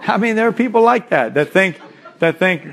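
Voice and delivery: chuckling through the words; laughing. Real, not acted. Preacher laughing at excuse-makers to the congregation. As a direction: laugh while explaining.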